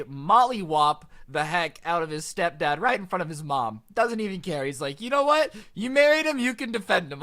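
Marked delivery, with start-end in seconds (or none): 5.0-7.2 high-pitched mock indignant outburst; retold defiance. Enraged son tells mom off mid-fight, retold indignantly. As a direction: throw it back at them, pitched high.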